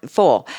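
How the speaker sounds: "full" for foil, one syllable; Southern "full" without the oy glide; Southern pronunciation. Shown as a demonstration. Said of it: "And foil is full".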